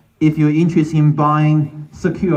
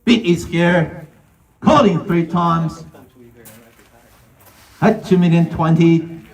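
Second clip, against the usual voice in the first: auctioneer calling. Real, not acted.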